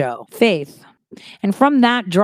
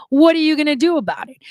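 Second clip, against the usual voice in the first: mocking taunt; 7 semitones higher, faster than usual. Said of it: "are like".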